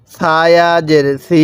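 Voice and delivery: slow spelling, then a stretched "সি"; drawn-out vowel. Shown as a demonstration. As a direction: hold the vowel of সি long and level. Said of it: "এক আলিফ এখানেও টান দিব".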